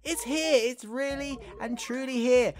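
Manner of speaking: high-pitched thrill of anticipation; acted delight. Game character receiving a delivery, acted delight. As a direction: marvel at the long-awaited arrival.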